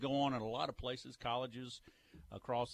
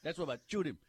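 louder, higher mock-Cajun accent; Cajun brogue; 4 semitones higher, 5 dB louder, faster than usual. Shown as a demonstration. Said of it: "the brogue down there".

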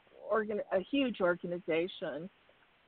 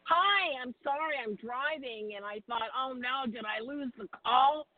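car speakerphone. Real, not acted. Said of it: "I'm driving, I'm driving through the hills".

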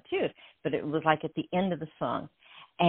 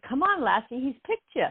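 put-on Scottish accent; 8 semitones higher than usual. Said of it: "he's Scottish".

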